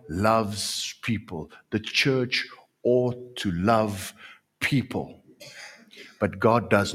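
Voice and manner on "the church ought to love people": usual speaking voice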